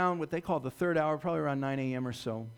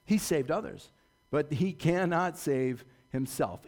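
mocking; 4 dB louder than usual. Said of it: "also mocked Jesus".

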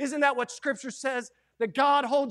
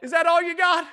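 first taunt; 7 semitones higher, 9 dB louder than usual. Acted. Repeated taunt.

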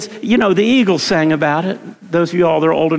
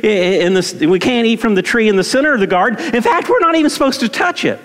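Eve answering; 4 semitones higher than usual. Retold or imitated. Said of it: "and she says".

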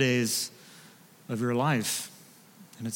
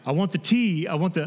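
higher, mock eager demand; eager clamouring; 4 semitones higher than usual. Pastor mimics church members wanting the sign's letters, eager clamouring. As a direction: imitate people clamouring for a keepsake.

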